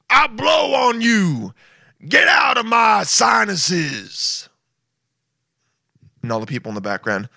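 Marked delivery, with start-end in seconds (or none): 0.1-4.5 high, slow, shouted creature voice; mock virus voice.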